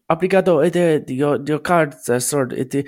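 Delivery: a hint of an awkward waiter breaking bad news; mock shop worker. Cashier telling a broke customer his card failed, lightly voiced. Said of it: "and it'd be like".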